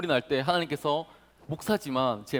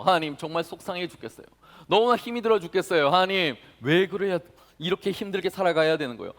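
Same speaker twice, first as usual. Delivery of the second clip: a touch of weary lament to God; honest complaint; 4 semitones higher, 4 dB louder than usual. Shown as a demonstration. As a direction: pour out frustration openly in prayer. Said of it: "있는 모습 그대로".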